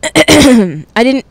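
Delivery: clearing throat. Real, not acted. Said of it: "Can you clear your throat?".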